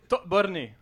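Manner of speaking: slow, word spelled out clearly; sounding out words. Shown as a demonstration. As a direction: present the new word slowly. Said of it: "une étape à la fois".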